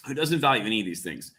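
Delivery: ordinary delivery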